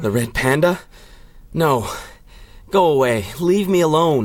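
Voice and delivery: panicked, pushing the intruder away; frightened pleading. Acted. Frightened scientist begs the Red Panda to leave him alone.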